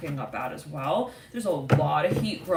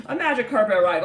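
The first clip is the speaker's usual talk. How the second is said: higher, louder, through a laugh; 5 semitones higher, 8 dB louder than usual. Real, not acted. Tarot reader amused by a viewer's comment, laughing.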